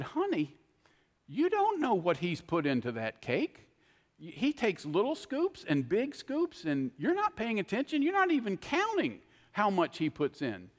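fretful husband pestering his wife about the scoops; antsy fretting. Retold or imitated. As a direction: fuss at her, all worked up. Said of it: "But I got all antsy".

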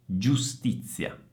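slow GIUSTIZIA with Z as ts; voiceless Z. Shown as a demonstration. Teacher repeats for students, slow ts-Z GIUSTIZIA. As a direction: keep the Z of pizza in GIUSTIZIA. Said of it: "Stessa Z sorda di pizza".

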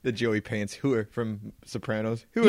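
"Whore." cut to a short "hoo"; the Sopranos-style "Whore."; clipped whore. Shown as a demonstration. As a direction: clip the word to "hoo". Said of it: "how short can you make the word".

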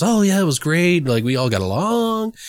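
breezy, upbeat press-junket answer; cheery stock answer. Retold or imitated. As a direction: toss it off like a happy cliché. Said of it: "everybody always says".

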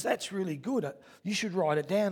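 wife's voice. Retold or imitated. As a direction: gently advise him to write it down. Wife Mel voiced in story.

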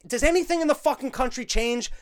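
indignant rising rant at politics; heated rant. Real, not acted. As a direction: rail at the idea, voice up and loud. Ranting at politicians.

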